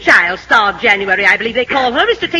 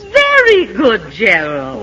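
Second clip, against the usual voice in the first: approving praise; 3 semitones lower, much slower than usual. Acted. Teacher praises favoured pupil.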